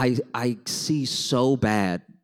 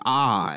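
mouth open ah. Shown as a demonstration. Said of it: "I'm like".

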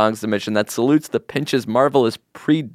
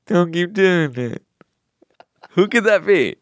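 put-on voice; 8 semitones higher than usual. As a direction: stretch it in a silly voice. Guessing game voices.

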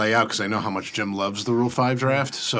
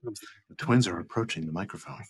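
hushed golf announcer voice; quiet, reverent golf broadcast call; golf commentator; 5 dB quieter than usual. Pretend. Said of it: "Should I do it like in my golf, golf announcer voice?".

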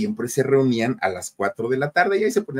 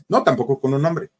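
usual speaking voice

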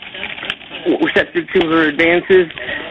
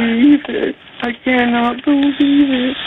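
stunned disbelief; 6 semitones higher, slower than usual. Real, not acted. Caller watching security on balcony.

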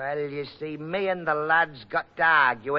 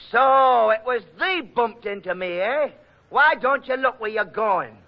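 raised, higher indignant telling-off; angry scolding; 8 semitones higher, 4 dB louder than usual. Acted. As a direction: tell him off loudly for bumping you. Bumped in the dark, scolding.

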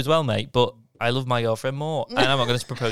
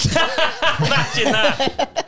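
slow, higher, laughing; 13 semitones higher, 7 dB louder, much slower than usual. Real, not acted. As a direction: laugh through it. Laughing at the idea.

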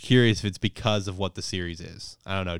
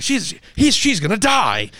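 squeaky panicked cry, much higher and louder; hammed-up alarm, voice cracking up high; mock panic; 12 semitones higher, 7 dB louder than usual. Grandpa realising Suzu is doomed, hammed-up panic. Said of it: "his grandpa freaks out".

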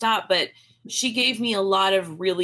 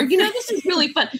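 mom's nagging line, pitched much higher; a light parody of mother's needling; lightly voiced mother, sing-song and high; imitating mom; 11 semitones higher than usual. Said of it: "my mother saying in my ear".

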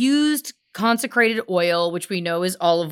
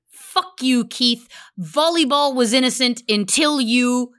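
higher, hammed-up angry shout; mock outburst; 4 semitones higher than usual. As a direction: curse him out in playful fury. Cursing Keith Raniere in mock rage.

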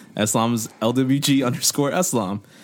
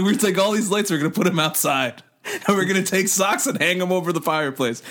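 put-on excited drunk man; 6 semitones higher than usual. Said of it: "He's like".

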